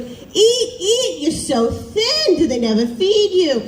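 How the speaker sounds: high, slow, laughing nagging grandma voice; Jewish grandmother stereotype. Retold or imitated. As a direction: play the fussing grandmother pushing food, half laughing. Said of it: "stereotype that grandmothers, especially Jewish grandmothers, are always like".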